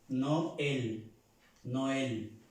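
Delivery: "Noel" as no-el, both vowels heard; Spanish-like E. Shown as a demonstration. Teacher repeats the trema example for learners, Spanish e in "Noel". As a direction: model "Noel" with a plain Spanish e. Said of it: "se pronuncia también como la E en el español".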